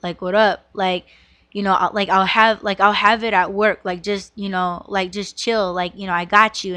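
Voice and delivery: a hint of a curt, businesslike man; serious phone voice. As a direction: lightly imitate him keeping a phone call short and serious. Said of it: "he had on his serious voice".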